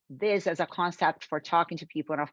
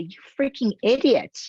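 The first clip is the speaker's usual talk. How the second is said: mock angry prospect. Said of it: "will look at you and say".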